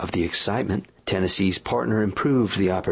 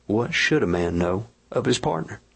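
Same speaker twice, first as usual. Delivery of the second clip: confidential reply; 2 semitones higher than usual. Retold or imitated. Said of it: "And I says to you, says I, confidential like".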